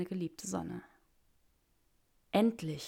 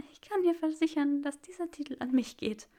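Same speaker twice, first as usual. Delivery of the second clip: trembling voice; 8 semitones higher than usual. Acted. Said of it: "mit bebender Stimme".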